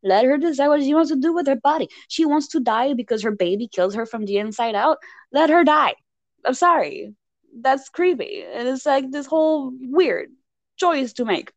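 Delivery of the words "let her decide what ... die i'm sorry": high-pitched indignant rant; exasperated protest. Retold or imitated. Viewer defending Bella's choice over her body, exasperated. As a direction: plead her case in exasperation. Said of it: "I was like".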